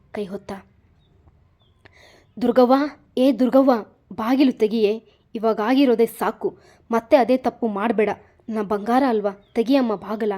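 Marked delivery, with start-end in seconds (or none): 2.4-10.3 loud anxious calling through a door. Acted. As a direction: call her out from behind the bathroom door. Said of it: "bathroom ಹೊರಗಡೆ ನಿಂತು ಕರೆಯುತ್ತಿದ್ದರು".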